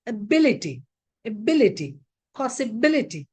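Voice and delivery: ability, possibility, both stressed on BIL; stress before -ity. Shown as a demonstration. Teacher giving a short example, stress on BIL in ability. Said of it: "The syllable which occurs before I T Y".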